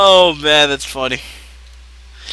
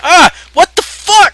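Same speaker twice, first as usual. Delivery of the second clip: surprised; 14 semitones higher, 8 dB louder, slower than usual. Real, not acted. Dropping items in game.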